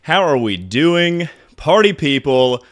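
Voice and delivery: panting through a hype intro; breathless, still catching air; out of breath. Real, not acted. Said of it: "I'm a little bit out of breath from that one".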